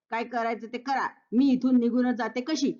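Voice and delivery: lightly mimicking the huffy line, stress on मी; daughter-in-law mimicking her mother-in-law's huffy words; mocking quote. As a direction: throw her words back at her. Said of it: "असं कोण म्हणालं?".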